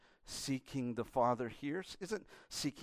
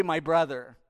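disdain; 8 dB louder than usual. Acted. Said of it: "The disdain".

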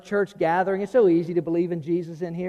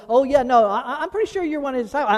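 second accuser; 6 semitones higher, 3 dB louder, faster than usual. Retold or imitated. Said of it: "And somebody else".

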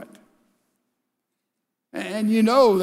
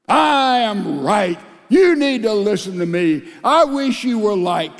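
dogmatic shout; 4 dB louder than usual. Retold or imitated. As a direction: lay down the law to the spouse. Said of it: "so much dogmatism".

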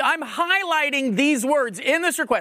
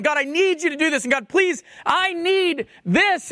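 mock urgent plea, higher pitched; pleading prayer; 5 semitones higher than usual. Preacher voices someone begging God for help, pleading. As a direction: plead with God, stretching out the final words.

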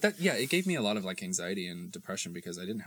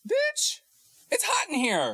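laughing; 7 dB louder, slower than usual. Real, not acted. Sweaty from laughing.

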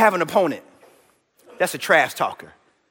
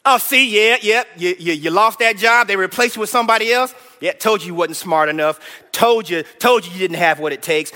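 mocking trash talk; 3 semitones lower than usual. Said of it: "Trash talk like this".

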